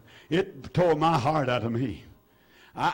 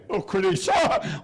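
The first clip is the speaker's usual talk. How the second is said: called out; 2 semitones higher than usual. Real, not acted. Preacher calling out in church.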